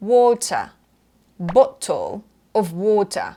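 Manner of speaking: BOTTLE and WATER with crisp, released T; hard British T. Shown as a demonstration. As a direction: punch each T in BOTTLE OF WATER. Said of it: "ออกเสียงตัว T กระแทกแรงๆ". (bottle of water กระแทก T แรงๆ)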